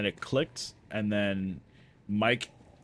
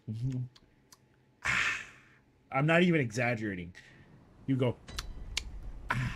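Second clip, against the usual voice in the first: mock gulping; 3 semitones higher than usual. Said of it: "drinking his Gatorade loudly".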